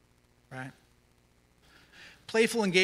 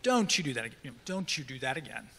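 brisk, serious parental warning, trailing softer; 4 semitones lower, 4 dB quieter, faster than usual. Acted. Dad to his older kids, serious warning. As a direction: warn quickly and without play. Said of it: "so serious".

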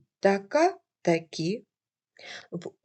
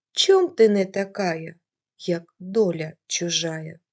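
folk verse recitation; 2 semitones lower than usual. Shown as a demonstration. Teacher finishing the folk verse for her class, mildly lamenting. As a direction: ask the question of fate with a touch of lament. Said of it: "Наприклад".

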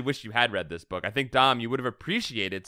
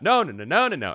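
imitating sampled no; 4 semitones higher, 4 dB louder than usual. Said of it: "things like what we're talking about".

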